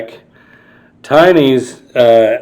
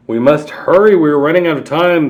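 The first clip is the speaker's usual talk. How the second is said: hurried, higher, louder warning; urgent; 4 semitones higher, 4 dB louder, faster than usual. Acted. Storyteller urging the child: hurried warning. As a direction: rush the words out, urgent.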